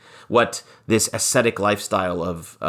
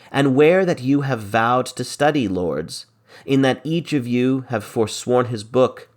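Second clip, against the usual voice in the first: dramatic verse reading; 3 semitones higher than usual. Acted. Teacher performing Biron's plea to the lords, dramatic reading. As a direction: argue it like Biron pleading with his lords.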